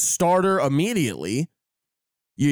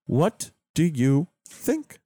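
moderator voice; slower than usual. Pretend. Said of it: "I did it".

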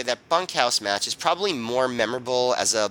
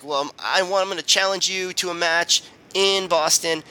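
angry Jay Briscoe; 8 semitones higher than usual. Retold or imitated. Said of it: "an angry Jay Briscoe".

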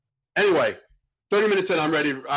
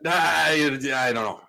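put-on drunk mumble; slower than usual. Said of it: "drunk answer".

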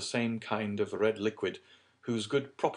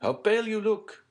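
very high, loud exclamation; raised voice of alarm; alarmed cry; 7 dB louder than usual. A narrator's reading. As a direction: exclaim in shocked concern. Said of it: "cried Debray".

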